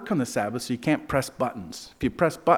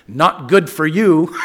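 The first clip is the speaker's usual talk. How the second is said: put-on Israeli accent; 3 semitones higher, 9 dB louder, slower than usual. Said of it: "thick Israeli accent".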